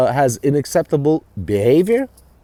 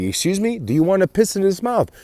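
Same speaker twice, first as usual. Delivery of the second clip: higher-pitched, disbelieving echo of a question; incredulous retort; 6 semitones higher than usual. Retold or imitated. Man retelling his reply to a shocking offer, incredulous. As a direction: repeat it back, pitched up in mock disbelief.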